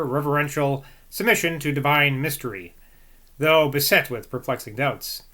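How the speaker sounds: measured book narration; formal read-aloud. A narrator's reading. Reader giving Boswell's view of Rousseau, formal read-aloud. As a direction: read the long sentences out with care.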